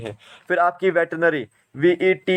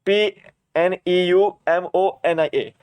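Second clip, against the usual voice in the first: slow letter-by-letter spelling; slower than usual. Shown as a demonstration. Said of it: "निमोनिया की spelling".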